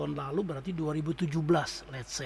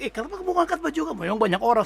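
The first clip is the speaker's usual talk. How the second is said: startled exclamation; 9 semitones higher, 6 dB louder, much faster than usual. Retold or imitated. Retold alarm as girl lifts shirt.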